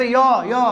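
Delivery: "यो" with an opening y-glide; "यो" sound demonstrated. Shown as a demonstration. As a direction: sound out "यो" with a clear y at the start. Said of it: "ठीक से सुनो". ("यो" को य की ध्वनि से बोलें)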